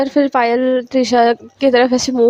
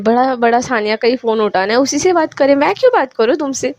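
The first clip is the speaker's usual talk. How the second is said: mildly sulky, rising protest; irritated retort. Acted. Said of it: "पायल वहाँ पे एकदम गुस्से में". (हल्की नाराज़गी में शिकायत)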